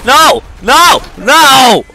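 shouting no. Real, not acted. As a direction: shout the denial. Denying accusation loudly in game.

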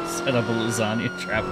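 real laugh breaking into the words. Real, not acted. Partner laughing at the Garfield-like sighting, laughing. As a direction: crack up as you suggest it.

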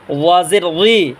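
"ওয়াজের রি" slowly with a heavy, soft voiced th; full-mouthed but gentle th in "ওয়াজের রি"; thick, soft ZA. Shown as a demonstration. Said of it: "মোটা আওয়াজে নরম করে".

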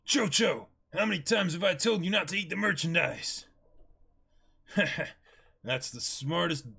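normal talking voice

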